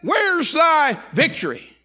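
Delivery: high, loud, drawn-out challenge; slow, ringing preacher's taunt; addressing death. Acted. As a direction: shout defiance at death from the pulpit. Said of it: "he's addressing death".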